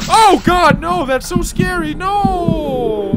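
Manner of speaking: high, loud frightened cry; really spooked by the monster; scared. Real, not acted. Player spooked by a horror game, loud scared cry.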